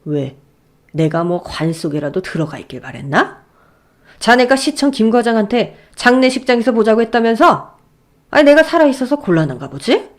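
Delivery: 싸늘하게 비꼬는 장인; 비꼬며 따지는 아버지; angry father. Acted. Father confronts son-in-law. (사위를 비꼬며 따지는 화난 장인)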